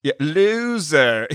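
slow, loud taunting yell; mock yelling. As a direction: drag out loser as a taunt. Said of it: "He was yelling that out too".

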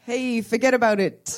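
slow, hammed-up American tough guy; American accent. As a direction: play a New York wiseguy begging to win. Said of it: "Beg for a victory in an American accent".

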